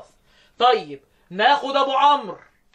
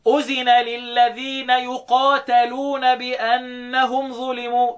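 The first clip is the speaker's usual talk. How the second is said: very slow recited verse, words drawn out; Quran recitation; much slower than usual. Shown as a demonstration. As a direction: recite it as in tarteel. (ترتيل بطيء للآية)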